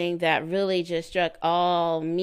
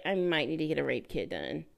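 quick, offhand retold remark; imitating her matter-of-fact mention; casual; 3 semitones lower, 4 dB quieter, faster than usual. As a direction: toss it off lightly. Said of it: "how do you casually say".

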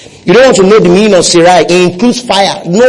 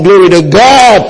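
building praise; 3 semitones higher than usual. Real, not acted. Preacher rousing the congregation in praise, building fervour. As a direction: build the praise, lifting the pitch each time.

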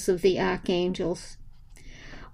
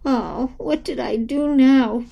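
wailing; 4 semitones higher than usual. Acted. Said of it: "Dora wailed".

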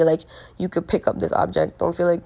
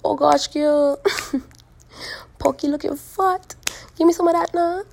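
loud, high Trini banter; Trini accent; 8 semitones higher, 4 dB louder than usual. Acted. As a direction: put on a teasing Trinidadian accent. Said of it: "Trinis talk bare shit".

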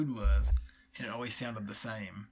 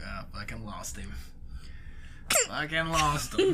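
exasperated mutter. Retold or imitated. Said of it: "and I'm just like".

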